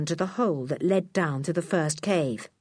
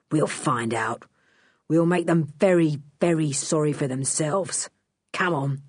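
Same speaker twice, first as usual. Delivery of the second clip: a low promise of trouble; menacing thief; 3 semitones lower than usual. A narrator's reading. Thief threatening the children, low and menacing.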